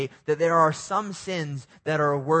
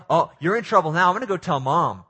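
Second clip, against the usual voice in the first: louder sing-song mock threat; tattletale kid; 3 semitones higher, 6 dB louder than usual. Sibling gloating about telling Mom, mock taunting. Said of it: "The tattletale?".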